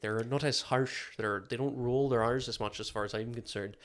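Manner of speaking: lightly lilting Irish accent. Shown as a demonstration. Explaining Irish versus Scottish to co-host, light Irish accent. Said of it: "they're a bit higher".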